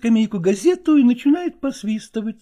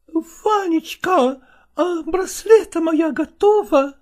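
tender; 5 semitones higher, slower than usual. Acted. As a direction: ask sweetly, coaxing. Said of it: "нежно спросила она".

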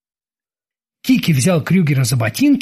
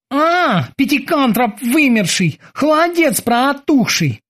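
high mocking insults to himself; self-encouraging cursing; 9 semitones higher, slower than usual. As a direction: egg yourself on with insults. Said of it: "подбадривал себя Кики".

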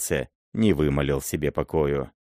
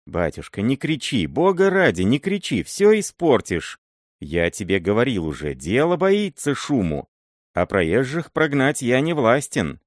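put-on higher pleading old miller, anxious; frightened begging; 4 semitones higher than usual. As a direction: beg him not to shout, fearful and urgent. Miller begging prince not shout.

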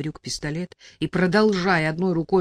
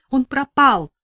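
sob; 8 semitones higher, 7 dB louder, slower than usual. A narrator's reading. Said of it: "всхлипнула я".

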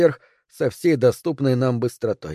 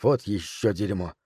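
low, quiet, slow grumble; muttering; 5 semitones lower, 8 dB quieter than usual. A narrator's reading. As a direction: curse under your breath. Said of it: "пробормотал я". (тихо бормочет с досадой)

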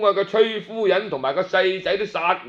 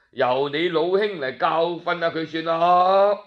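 feigned kindness; 4 semitones lower than usual. Acted. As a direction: sound caring while scheming. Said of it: "就装作好心咁讲".

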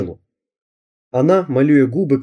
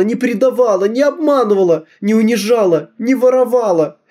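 wailing; 9 semitones higher than usual. Acted. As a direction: howl it into a pillow. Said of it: "завыла я в подушку". (высокий громкий вой в подушку)

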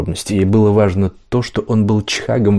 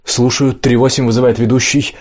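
radio call; 4 semitones higher than usual. Acted. Officer radios the escort.

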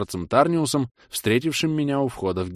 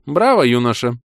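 put-on loud hearty old man's bravo; 3 semitones higher, 7 dB louder than usual. A narrator's reading. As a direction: praise like a pleased old wizard. Mage praises.

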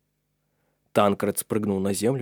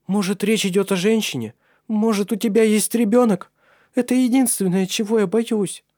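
trembling voice; 11 semitones higher, 4 dB louder than usual. A narrator's reading. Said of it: "сказала дрожащим голосом Джессика".

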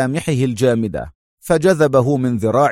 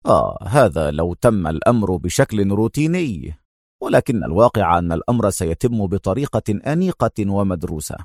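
a slightly lower, smooth scheming voice; understated calm villain; lightly voiced schemer; 3 semitones lower than usual. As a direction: lay out the plan with easy confidence. Narrator voices Tony scheming.

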